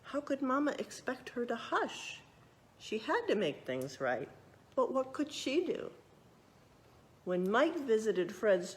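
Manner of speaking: lively storybook narration; reading to children. A narrator's reading. Librarian reading a true story to children, lively narration. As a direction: read it out like a picture book for kids.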